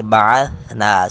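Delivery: بَعَثْنَا with ث soft, no whistle; soft tha. Shown as a demonstration. Teacher warns against whistling sound in tha. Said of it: "سیٹی کی آواز نہیں آنی چاہیے".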